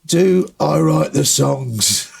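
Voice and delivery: drawn-out heckler shout; slow heckling call. Retold or imitated. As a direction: heckle with a mocking request. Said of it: "he goes".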